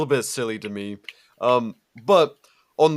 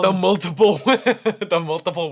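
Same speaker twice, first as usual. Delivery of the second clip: laughing; 7 semitones higher, 7 dB louder than usual. Real, not acted. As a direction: laugh through the words. Amused repeating of phrase.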